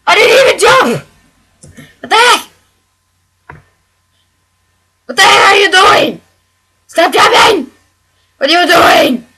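whining, crying yell at a game that won't obey; whiny rage. Real, not acted. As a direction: wail at the controller as if the game cheated you.

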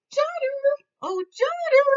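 high sing-song call. Acted. Wife calls daughter.

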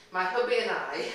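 playfully unposh. Shown as a demonstration. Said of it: "I think that's much better than".

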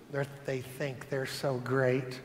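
low, soft sneering murmur; Satan whispering. Retold or imitated. Preacher voicing Satan's jealous whisper, low and soft. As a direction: hiss it like the devil in an ear. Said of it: "he whispers".

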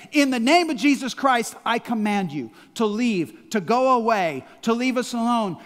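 loud, forceful rebuke; firm command. Shown as a demonstration. Believer rebuking darkness, loud command. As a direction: drive it away with authority. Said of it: "the authority to say".

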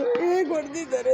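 mildly tearful mock reproach; a touch of acted weeping; demonstrated crying. Shown as a demonstration. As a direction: draw it out slightly as if crying. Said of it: "ಅದನ್ನ ಅಳ್ತಾ ಹೇಳ್ಬೇಕು".

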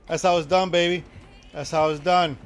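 loud, fired-up boast; loud victory gloat; triumphant bragging. Real, not acted. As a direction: crow loudly over the win. Celebrating the win.

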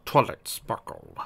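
slow, musing address; thoughtful. A narrator's reading. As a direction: say her name thoughtfully. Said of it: "said Flare thoughtfully".

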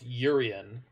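Urian said YUR-ee-un, stress on first syllable; others' pronunciation. Shown as a demonstration. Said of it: "Isn't it pronounced Urian?".

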